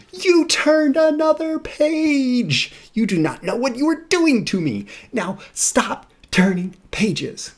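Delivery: high, loud, slow panicked monster; Grover voice. Acted. Grover scolds the reader for turning the page, high and panicked. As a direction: squeal it in alarm like a fretful puppet. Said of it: "So here's Grover".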